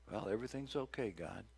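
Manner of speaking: quick, soft, dismissive; offhand. Pretend. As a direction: brush God off casually. Mocking complacent churchgoers.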